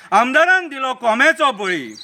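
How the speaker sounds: measured satirical verse recital; mocking political poem read aloud; poem recitation. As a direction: recite it as rhythmic verse, letting the line endings fall.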